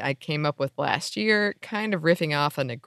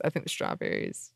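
whispering; 9 dB quieter than usual. Real, not acted. Aside after choosing strawberries.

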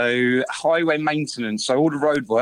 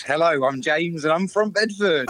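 formal phone introduction, pitched up at the end; work-mode voice; 5 semitones higher than usual. Real, not acted. Caller greeting his best mate's show, mock-official work voice. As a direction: introduce yourself in your work voice. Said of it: "I'm in work mode".

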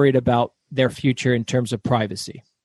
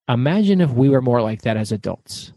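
calm acupuncturist; 4 semitones lower than usual. Retold or imitated. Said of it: "He is slow and methodical and calm".

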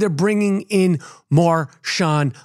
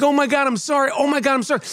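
apologetic wife; 6 semitones higher, faster than usual. Retold or imitated. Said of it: "She's like".

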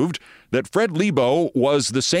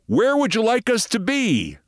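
put-on thick European accent; 10 semitones higher than usual. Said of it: "in a rather thick European accent".

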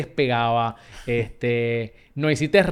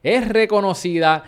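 announcer build-up, stretched words, louder on the name; guest introduction; 3 dB louder, slower than usual. Acted. Host presenting the Tele once voice to listeners, announcer build-up. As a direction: present the guest like a big reveal.

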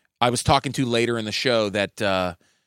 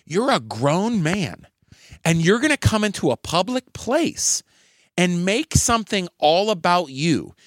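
higher, slow and firm telling-off; retold scolding; 5 semitones higher than usual. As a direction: scold a heckler in front of the room. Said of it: "this is what I threw at him".

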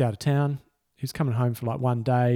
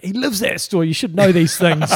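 laughing; 6 semitones higher, 7 dB louder than usual. Retold or imitated. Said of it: "And he said".

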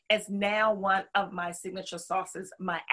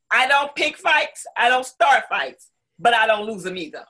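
punchy, confident declaration; bold tagline; 5 dB louder than usual. Real, not acted. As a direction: deliver it like a fighter's motto. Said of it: "I have this line that goes with my name".

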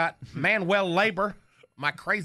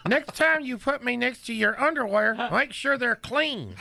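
higher, cheeky dummy voice; Knucklehead's voice; 5 semitones higher than usual. Acted. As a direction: play the wisecracking puppet. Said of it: "still doing Knucklehead's voice".

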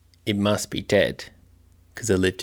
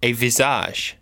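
spooky poem. Acted. Recites a spooky rhyme.

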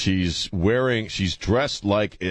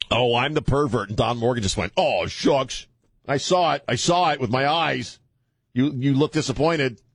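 mock impersonation; 5 semitones higher than usual. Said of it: "doing an impersonation of you".

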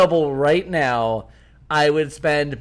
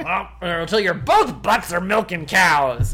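folksy voice; 3 semitones higher than usual. Retold or imitated. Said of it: "It would sound kind of folksy".

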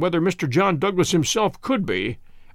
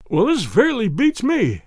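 higher, slow astonished cry; cried out; 6 semitones higher, 3 dB louder, slower than usual. A narrator's reading. Inspector astonished at the newcomer, crying out slowly in amazement. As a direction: let the amazement burst out slowly. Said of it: "he cried at last".

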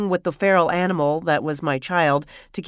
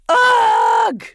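high, loud groan of exasperation; loud exasperated groan; 13 semitones higher, 7 dB louder than usual. Retold or imitated. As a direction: let out a shout of pure exasperation. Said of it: "in the loudest voice I have ever said".

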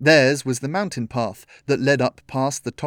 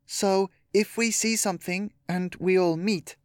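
higher, lightly voiced girl; a girl tentatively raising a question; 7 semitones higher than usual.

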